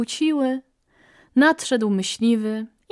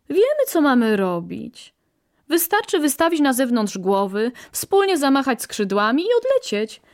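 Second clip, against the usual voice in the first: a hint of cocky birds, pitched higher; lightly voiced self-assured birds; 5 semitones higher than usual. Birds refusing to leave their home, lightly voiced as self-assured. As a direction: lightly act out birds who think they know it all.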